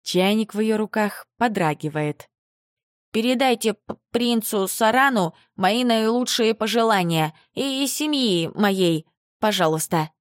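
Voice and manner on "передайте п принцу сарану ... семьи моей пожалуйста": nervous, stumbling, higher voice; flustered stammer. Acted. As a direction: trip over the words shyly. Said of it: "Потупившаяся Ника краснеет до корней волос".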